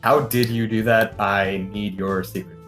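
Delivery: normal talking voice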